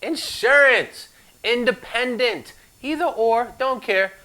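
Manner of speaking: high, slow mock answers tossed off; playful guesses. Instructor teasing the class about the acronym, high and playful. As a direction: toss out silly guesses up high. Jokey guessing what I stands for.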